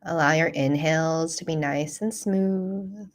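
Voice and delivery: calm, unhurried guiding voice with long pauses; guided meditation. Real, not acted. Teacher guiding listeners through a self-compassion practice, calm meditation voice. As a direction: lead them gently through the practice, leaving space.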